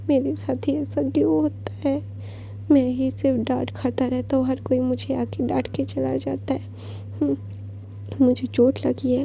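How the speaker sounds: hammed-up fake sob of self-pity; a sulking son pretending to cry for sympathy. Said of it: "रोने की acting करता है".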